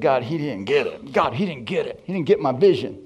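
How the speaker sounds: mildly exasperated, punchy protest to God; retold griping, hitting each phrase; upset complaint. Preacher retells complaining to God about his pastor, upset. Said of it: "I got a little upset".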